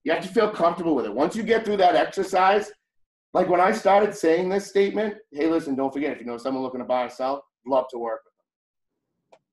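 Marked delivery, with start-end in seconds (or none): 5.3-9.4 stilted, uncomfortable script voice; stiff scripted read. Shown as a demonstration. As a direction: say it like a nervous beginner reciting a script. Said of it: "It didn't sound like that".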